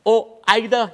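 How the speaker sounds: high-pitched, urgent appeal to a passer-by; calling out. Acted. Arguers asking a passing Bajan to judge, calling out. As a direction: hail him high to settle the row.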